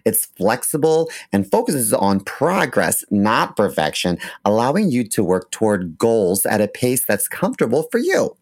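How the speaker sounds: ad read. Acted. Host reads sponsor copy.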